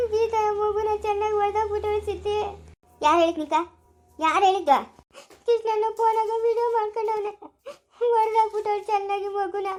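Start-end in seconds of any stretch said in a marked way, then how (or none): 0.1-2.4 telling it through tears; sobbing out the bad news to Siddhi; crying. Telling wife baby was beaten. 5.5-9.7 telling it through tears; sobbing out the bad news to Siddhi; crying. Telling wife baby was beaten.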